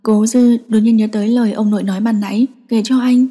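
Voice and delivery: ordinary delivery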